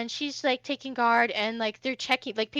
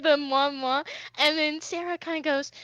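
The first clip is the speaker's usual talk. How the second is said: ordinary delivery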